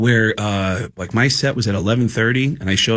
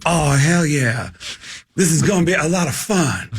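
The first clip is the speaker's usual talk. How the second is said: Mitch Hedberg. Retold or imitated. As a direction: stretch the words lazily, a light impression. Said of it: "And he's like".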